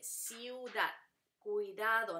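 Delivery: ciudad, cuidado slowly split into syllables. Shown as a demonstration. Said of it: "se divide". (ciudad, cuidado dichas despacio por sílabas)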